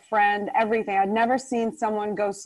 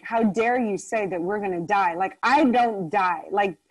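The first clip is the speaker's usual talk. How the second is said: offended. Retold or imitated. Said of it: "so I was very offended by this".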